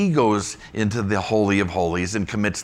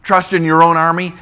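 higher, louder scoffing question; mocking question; 9 semitones higher, 9 dB louder than usual. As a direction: scoff at the idea. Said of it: "recycling what he's already said".

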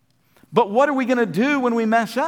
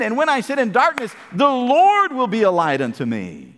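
ringing proclamation; 3 semitones higher than usual. Acted. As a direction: proclaim it as a victory. Verse proclaimed with fire.

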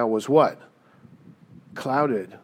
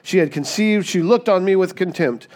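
raised, higher reading of an angry wife; indignant accusation; 5 semitones higher, 4 dB louder than usual. Acted. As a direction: read it as a wife scolding her husband. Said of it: "She says".

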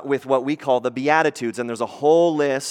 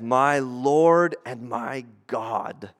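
slow, low, hushed awe; awed confession; 3 semitones lower, much slower than usual. Retold or imitated. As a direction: breathe it out in worship. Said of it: "I love Thomas's response".

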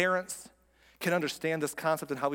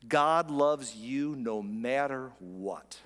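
very slow, stretched-out words; emphatic declaration; much slower than usual. Real, not acted. Pastor assuring congregation of God's love, slow and emphatic. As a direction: draw out each word to let it land. Preacher driving home his main point.

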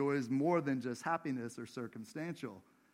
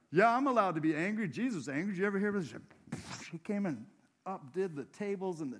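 higher, louder mock protest; defensive self-justifying; 5 semitones higher, 4 dB louder, faster than usual. Preacher mimics people excusing their own anger, mock defensive. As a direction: act out someone insisting on their right.

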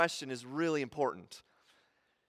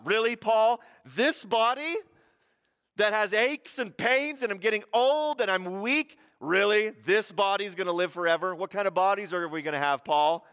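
mock the idea of a body living forever, with mild disbelief; mocking question; 2 semitones higher than usual. Preacher voicing a Corinthian scoffer mocking Paul, mildly sarcastic. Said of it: "it's mocking questions".

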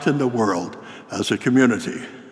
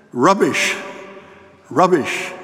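higher-pitched retold outburst; mock shouting; 4 semitones higher, slower than usual. Principal interrupting a student's sermon, mock shouting. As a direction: imitate an indignant heckler shouting. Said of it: "jumped to his feet and started shouting".

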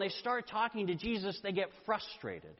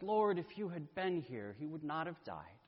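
exasperated, quiet; 5 dB quieter than usual. Retold or imitated. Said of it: "She gets so exasperated".

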